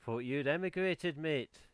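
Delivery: a rough stab at a Welsh lilt; attempted Welsh accent. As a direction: imitate a Welsh neighbour's greeting, loosely. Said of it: "I can't do a Welsh accent".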